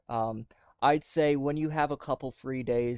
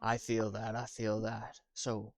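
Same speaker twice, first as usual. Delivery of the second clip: quiet sympathy; 3 semitones lower, 8 dB quieter than usual. Acted.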